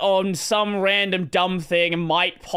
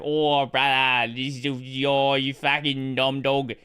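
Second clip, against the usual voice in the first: fake Aussie accent; 5 semitones lower, slower than usual. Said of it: "a fake accent".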